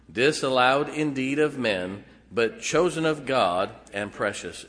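measured, solemn reading of the Bible verse; scripture reading. Acted. Pastor reading scripture to the church, solemn and steady. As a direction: read the passage with reverent weight. Reads scripture aloud to congregation.

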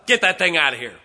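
put-on an old woman yelling at a preacher's baby; angry old woman. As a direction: yell it like she can't stand the baby.

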